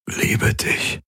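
hoarse whispered words; barely voiced, strained whisper; forced out. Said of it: "brachte er hervor".

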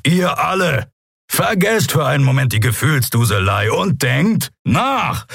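hohe, fordernde Zurechtweisung; wütend anfahren. A narrator's reading. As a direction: schneidend die Gruppe zur Vernunft rufen. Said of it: "als Kero sie anfuhr". (Kero weist alle zornig zurecht)

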